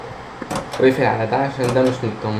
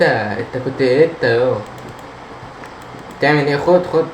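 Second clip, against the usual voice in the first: panicking gamer. Real, not acted. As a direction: panic as things move by themselves. Chair moves, gamer panics.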